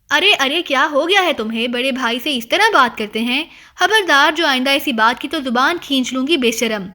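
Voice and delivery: mother's stern, furious rebuke; fierce anger. Acted. Mother scolding her daughter for insulting her brother, angry. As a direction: threaten hard, scolding the cheeky girl. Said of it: "شدید غصے میں".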